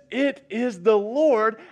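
slow, loud and high, the word Lord falling; enthusiastic exclamation. Shown as a demonstration. Preacher to church, high joyful proclamation. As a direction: read it with the exclamation mark. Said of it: "exclamation mark".

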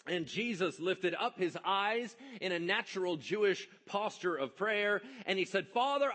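loud, high preaching at full force; full-voiced sermon delivery. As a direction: preach it out to the congregation. Preacher reading scripture at full force.

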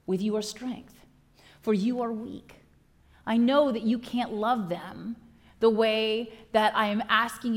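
measured tender voice of Jesus; Jesus speaking. Acted. Jesus to his disciples at the supper, tender and firm. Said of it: "And so Jesus says".

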